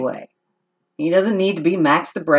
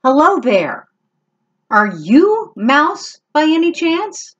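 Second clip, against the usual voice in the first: kitten voice; 9 semitones higher, 3 dB louder than usual. Acted. Kitten asks mouse.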